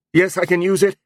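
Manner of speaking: high, hurried, fearful reply; frightened answer. A narrator's reading. Zeno hurries to answer the goblin, frightened. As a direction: answer fast, scared. Terrified captive answers quickly.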